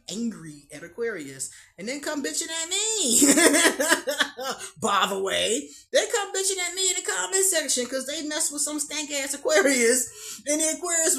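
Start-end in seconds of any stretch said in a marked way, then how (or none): 3.2-11.2 laughing. Real, not acted. Laughing at angry commenters.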